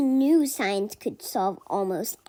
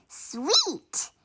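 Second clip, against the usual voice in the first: bright cheer, a bit higher; 6 semitones higher than usual. A narrator's reading. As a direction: cheer it out with delight. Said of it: "cheered Caroline and Daisy".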